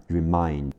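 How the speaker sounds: "remind" stressed as the teacher marks it before M. Shown as a demonstration. Teacher showing learners where stress goes, stressed "remind". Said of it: "重音在M的前面".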